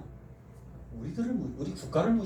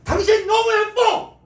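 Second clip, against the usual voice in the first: very high, loud, slow gushing compliment; delighted high-pitched praise; raised voice praise; 11 dB louder, slower than usual. Shown as a demonstration. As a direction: lift the voice high to praise your wife. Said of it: "칭찬할 때 목소리를 높이셔야 됩니다".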